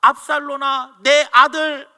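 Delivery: crying out a grieving father's lament, loud and high; a father wailing for his dead son, voice rising to a shout; anguished father's cry. Acted. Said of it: "그가 올라갈 때 말하기를". (죽은 아들을 부르며 울부짖는 아버지의 외침)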